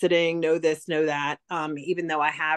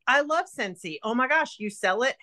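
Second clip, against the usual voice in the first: excited fan; 6 semitones higher than usual. Retold or imitated. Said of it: "the other girl at the desk was like".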